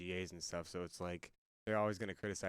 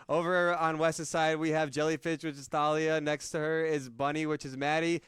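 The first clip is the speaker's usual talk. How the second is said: louder, slightly raised announcer delivery; team introduction; 6 semitones higher, 8 dB louder than usual. Real, not acted. Host introduces each player to viewers at home, announcing. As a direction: present the roster to the audience with energy.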